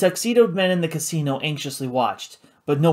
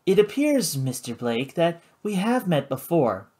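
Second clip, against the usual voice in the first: lightly voiced cool hostess; 4 semitones higher than usual. Karina to Paladin, cool and poised.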